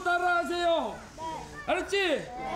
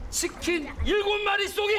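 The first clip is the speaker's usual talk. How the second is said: 웃음 섞어 신나게 외쳐; 일곱에 힘주며 웃으며 외치기; 5 semitones higher than usual. Real, not acted. Announcing prize. (웃음 섞인 외침)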